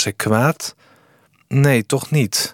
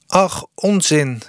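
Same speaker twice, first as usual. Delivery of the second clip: higher, slow dismissive call; 6 semitones higher, slower than usual. A narrator's reading. Sanne waves off Eefje's fear of breaking the shoes, calling out. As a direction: brush the worry away with a high, slow call. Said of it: "riep Sanne".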